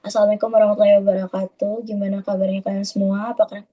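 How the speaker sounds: lifeless, unchanging tone with no expression; flat monotone. Shown as a demonstration. Teacher shows students a flat, lifeless meeting opening. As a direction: read the meeting greeting dead flat. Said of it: "datar gitu ya, nadanya datar banget".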